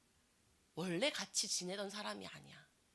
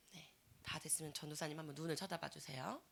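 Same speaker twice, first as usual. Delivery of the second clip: soft whispered request; 4 semitones lower, 10 dB quieter than usual. Real, not acted. Preacher quietly asking students to look up, whispering. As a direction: whisper so only they hear. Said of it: "whispered instruction to class".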